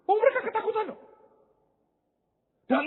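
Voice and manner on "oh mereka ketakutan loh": sly realization. Acted. Voicing Goliath's realization.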